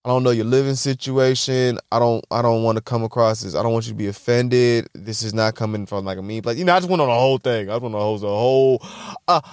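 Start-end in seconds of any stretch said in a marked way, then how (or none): 0.0-6.6 mock sincere. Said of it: "I tried to be sincere".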